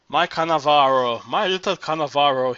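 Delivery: a lightly voiced amorous coo; cooing amorously. Old singer cooing to her lost admiral, mild coo. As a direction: coo his name like a lover. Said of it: "she cooed amorously".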